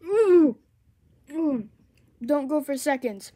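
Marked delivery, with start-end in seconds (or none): 0.0-0.6 high loud wincing ooh; sour shock ooh. Real, not acted. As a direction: yelp at the sour taste. Second candy, sour shock.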